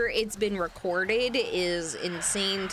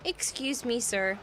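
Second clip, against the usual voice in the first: put-on little girl voice; 4 semitones higher than usual. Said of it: "She said".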